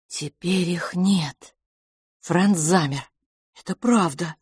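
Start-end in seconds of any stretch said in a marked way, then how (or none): none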